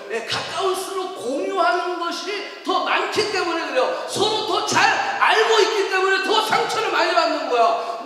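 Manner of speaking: loud, high, insistent explaining; forceful preaching. Real, not acted. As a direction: build the reasons with mounting volume.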